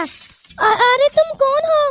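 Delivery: high, frightened cry of who are you; startled fright. Acted. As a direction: jump back in fright at a stranger. Girl startled by stranger. (डरी हुई ऊँची चीख)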